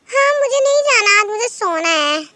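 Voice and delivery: high, loud sleepy whine; a kid refusing to get up; whiny refusal. Acted. Sleepy sister refuses school. (ऊँची, ज़ोरदार ऊँघती ज़िद)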